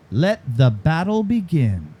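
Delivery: slow, deliberate slogan read; measured ad tagline delivery. Shown as a demonstration. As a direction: announce it like a slogan, drawing out each word. Host reads out quiz tagline.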